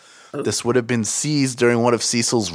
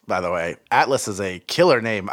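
ordinary delivery

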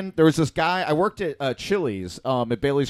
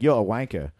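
British dude; 5 semitones lower than usual. Retold or imitated. Retelling British dude's answer to a drunk question, mock British. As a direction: lower mock British accent. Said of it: "his name was British Dude".

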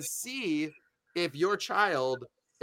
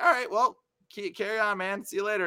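breezy brush-off; 5 semitones higher than usual. Retold or imitated. Brushing the man off, said higher.

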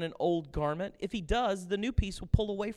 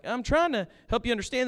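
exasperated plea; 7 semitones higher, 6 dB louder than usual. Retold or imitated. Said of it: "You're like".

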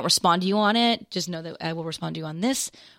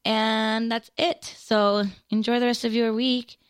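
short of breath, slightly strained; 4 semitones higher than usual. Real, not acted. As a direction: speak as if breath is running out. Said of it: "I'm running out of breath".

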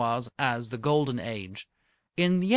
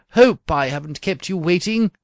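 apologetic; 3 semitones higher, 9 dB louder than usual. Acted. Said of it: "said Merolchazzar apologetically".

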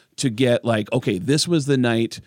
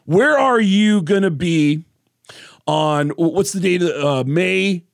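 excited Corey; 4 semitones higher than usual. Retold or imitated. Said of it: "And he goes".

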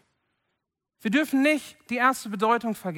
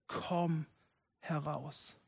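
soft call; 3 semitones lower, 10 dB quieter, much slower than usual. Acted. God's call recalled softly.

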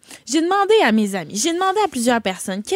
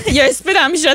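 laughing; 3 semitones higher, 5 dB louder, faster than usual. Real, not acted. Teasing quote of friend's excuse.

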